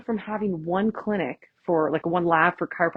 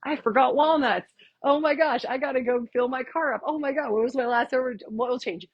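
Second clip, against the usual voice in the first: higher, rushed mock panic as errands flood in; frantic racing thoughts; 5 semitones higher than usual. Yoga class, mind wandering to errands: mock frantic. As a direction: play the mind scattering in a half-joking fluster. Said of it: "And you're like".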